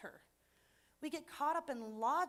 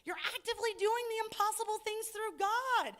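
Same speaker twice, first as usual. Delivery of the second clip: frustrated plea to Peter; 2 semitones higher than usual. Retold or imitated. Preacher wishing to tell Peter off, frustrated. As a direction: scold Peter like a friend you can't believe. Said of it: "I am so frustrated sometimes".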